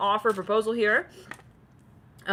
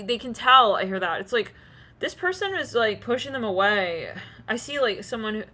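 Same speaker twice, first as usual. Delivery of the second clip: ordinary talk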